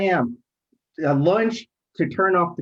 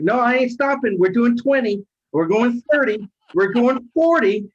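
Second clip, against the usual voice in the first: raised pitch, mounting speed count; defiant refusal, retold; 5 semitones higher than usual. Driver refusing passenger while speeding up, retold defiant count. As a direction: refuse him and count up the threat.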